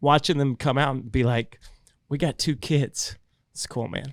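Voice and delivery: choked-up voice catching with feeling. Recalling watching a family in the waiting room, choked up. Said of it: "I'm getting I'm getting choked up".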